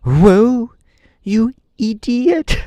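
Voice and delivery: high, loud whoa; shout. A narrator's reading. Tip shouting at the runaway sawhorse, loud and high. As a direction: yell it high to stop the horse. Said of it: "shouted Tip".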